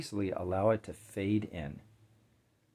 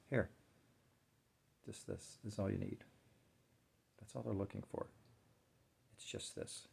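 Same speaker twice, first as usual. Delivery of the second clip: hushed and soothing; 9 dB quieter than usual. Shown as a demonstration. Showing how to hold space.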